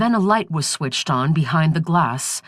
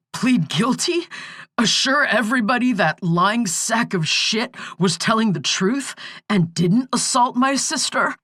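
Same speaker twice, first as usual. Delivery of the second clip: raised, bitter rapid-fire questions; bitter outburst; 5 semitones higher than usual. Acted. Client rejecting his lawyer's plea advice, bitterly raised. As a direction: throw the advice back at him.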